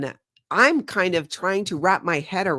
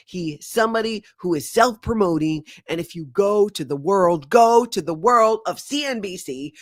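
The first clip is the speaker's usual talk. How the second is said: scornful rant; 2 semitones higher, 4 dB louder than usual. Retold or imitated. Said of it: "Leisure says".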